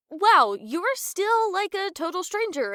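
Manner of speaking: high, sudden snap out of it; self-conscious. Acted. Realising she overshared with a stranger, self-conscious. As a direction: catch yourself oversharing, embarrassed.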